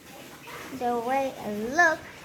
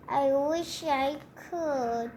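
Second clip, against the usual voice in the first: mild misery; slower than usual. Acted.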